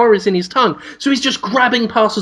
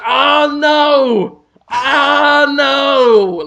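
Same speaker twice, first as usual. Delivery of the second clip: hammed-up despairing shout, higher and louder; mock anguished wail; 5 semitones higher, 4 dB louder, much slower than usual. The villain wails in hammed-up despair as rain washes him. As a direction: wail it clutching your face. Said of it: "Like that".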